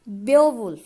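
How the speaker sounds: बेओवुल्फ with stress on the opening बे; stress on first syllable. Shown as a demonstration. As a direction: lean on बे in बेओवुल्फ, then two unstressed syllables. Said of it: "पहला syllable stressed होगा".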